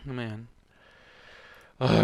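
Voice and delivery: usual speaking voice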